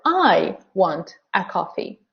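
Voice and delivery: "I" and "a" said in full, word by word; slow, every word of "I want a coffee" separate; strong forms. Shown as a demonstration. Teacher showing learners unreduced words, strong forms. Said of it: "I and a are weak forms".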